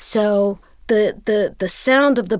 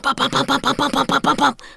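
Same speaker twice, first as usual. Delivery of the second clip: imitated popping sound; 5 semitones higher than usual. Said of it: "And I heard him pop".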